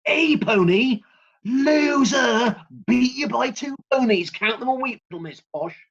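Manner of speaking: put-on high, loud childish jeering; mock gloating taunt. Parent imagines taunting a posh nine-year-old, high and loud jeering. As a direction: crow over her like a spiteful kid. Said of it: "is what I wanted to say".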